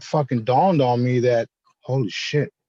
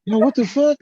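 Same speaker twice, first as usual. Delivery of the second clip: retold disbelief; 9 semitones higher than usual. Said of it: "I'm like".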